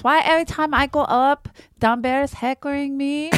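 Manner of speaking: aggrieved complaint in imitation Asian accent; mock Asian accent.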